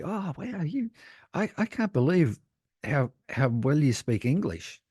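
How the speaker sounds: high, gushing impressed New Yorker; a light New York gush over his English. Retold or imitated. New Yorkers marvel at his English, high and gushing. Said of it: "people in New York would say".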